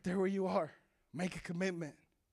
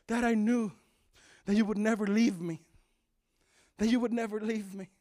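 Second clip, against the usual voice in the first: tender; 3 semitones lower, 3 dB quieter than usual. Acted. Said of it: "the son looks at his dad and says".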